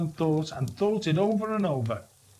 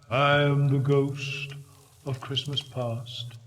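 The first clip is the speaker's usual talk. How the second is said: soft, low spirit; slower than usual. Acted. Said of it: "soft and gentle, singularly low".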